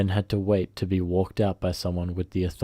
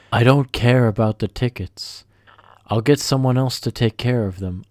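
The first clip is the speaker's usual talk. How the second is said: louder, higher dismissive order; curt angry boss; 4 semitones higher, 7 dB louder than usual. Retold or imitated. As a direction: cut him off and bark the order. Boss overriding narrator's excuse.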